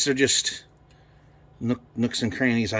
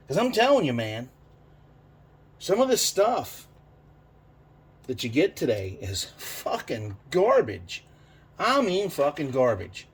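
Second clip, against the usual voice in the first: getting emotional; 3 semitones higher than usual. Real, not acted. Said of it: "getting emotional about it here".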